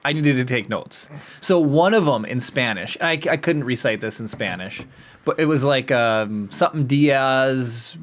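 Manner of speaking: ordinary delivery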